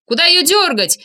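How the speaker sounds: high, urgent shouted question; alarmed shout. A narrator's reading. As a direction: cry it out over the engine. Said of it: "крикнул я".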